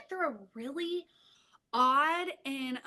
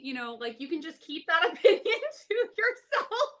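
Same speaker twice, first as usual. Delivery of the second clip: amused mom. Retold or imitated. Mom answers daughter, laughing.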